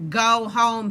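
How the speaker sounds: angry doctor. A narrator's reading. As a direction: snap it at her, red in the face. His face turned red.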